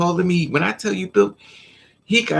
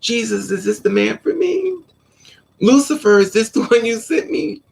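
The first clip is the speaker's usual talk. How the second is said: high, loud, giddy plea to heaven; high breathless prayer, with a laugh near the end; high excited prayer; 7 semitones higher, 3 dB louder than usual. Retold or imitated. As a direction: cry out to Jesus like a smitten girl. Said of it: "you run in the house".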